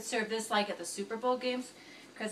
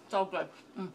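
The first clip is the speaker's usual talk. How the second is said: mumbled through a mouthful of food; mouth full; 4 semitones lower, 6 dB quieter than usual. Real, not acted. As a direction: talk with your mouth full of chips. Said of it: "now I'm eating with my mouth full".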